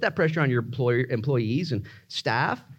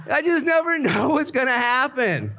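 mock exasperation; 9 semitones higher, slower than usual. Mock exasperation after ups and downs.

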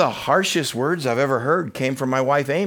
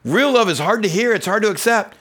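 emphatic repeat; 7 semitones higher, 4 dB louder than usual. Acted.

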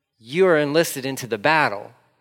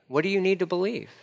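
higher, plainly asked question; raised question; 5 semitones higher, 4 dB quieter than usual. Acted. Jesus first asking a doubter, raised. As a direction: ask it up and clear first.

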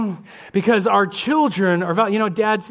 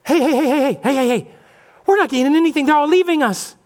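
alarmed Pharisees; 6 semitones higher, 4 dB louder, faster than usual. Retold or imitated.

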